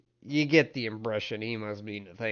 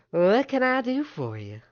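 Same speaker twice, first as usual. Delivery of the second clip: high, louder woman character voice; surprised counter woman; 13 semitones higher, 8 dB louder than usual. Acted. Woman at the desk greets a visitor, high and surprised. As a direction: greet them high, caught off guard. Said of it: "she seems almost surprised to see you".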